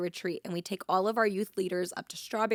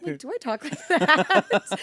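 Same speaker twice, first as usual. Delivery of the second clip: higher, louder, slower mocking take on "Do I talk like that?"; kid's impression of her; 5 semitones higher, 5 dB louder, slower than usual. Youth camp kid mimicking Brenna, high and drawn out. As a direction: parrot yourself the way a kid mimics you, up high. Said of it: "did a great rendition of me".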